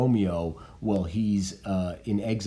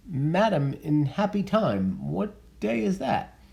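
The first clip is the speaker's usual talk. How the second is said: reading Juliet; 9 semitones higher than usual. Acted.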